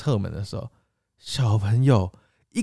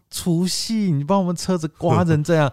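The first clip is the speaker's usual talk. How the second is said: angry thought; 6 semitones higher than usual. Retold or imitated. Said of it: "然后我就很生气".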